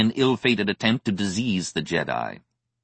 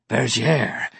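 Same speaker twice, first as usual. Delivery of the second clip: fuming; 5 semitones higher than usual. Acted. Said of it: "he fumed".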